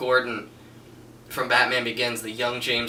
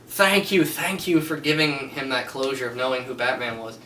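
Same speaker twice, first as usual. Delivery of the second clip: emotional Gordon; 2 semitones higher than usual. Retold or imitated. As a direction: overcome with gratitude, voice flying up then easing. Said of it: "He's just like".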